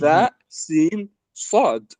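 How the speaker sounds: ثاء، سين، صاد spelled out slowly, each letter said clearly apart; letters recited slowly as a model; Arabic letter names. Shown as a demonstration. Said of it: "الثاء نقولها الثاء، والسين والصاد".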